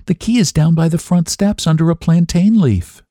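high, gentle coaxing at an even flow; gentle and high, without a break; gentlest voice. A narrator's reading. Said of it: "said I in the gentlest voice".

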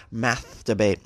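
"Masturbate" said with a lisp, the s turned to th, "mathturbate". Shown as a demonstration. Host tries the word "Masturbate" with a playful lisp. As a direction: lisp "Masturbate" so the s becomes a th sound. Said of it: "funny to say with a lisp".

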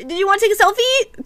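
tossing off a smug selfie offer; cocky Kai. Retold or imitated. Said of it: "cocky Kai with".

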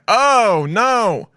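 high, loud hammed-up scream of no; mock scream. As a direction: shriek it in fake panic. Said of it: "she just starts screaming".

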